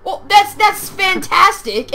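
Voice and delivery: sarcastic praise. Real, not acted. Sarcastic retort to teammate's boast.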